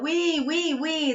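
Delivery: put-on repeated piggy "we" for children; little piggy sound. Shown as a demonstration. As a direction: lightly imitate a piglet. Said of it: "pronúncia do porquinho". (som de porquinho para crianças)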